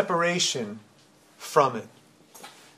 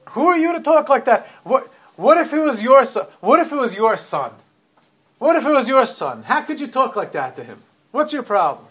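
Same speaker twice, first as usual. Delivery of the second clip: much higher and louder, indignant; aggressive outburst; 7 semitones higher, 5 dB louder than usual. Retold or imitated. Bystander confronting the actress for mocking the boy, angrily. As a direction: defend him, furious at the bully. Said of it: "this woman who got really aggressive".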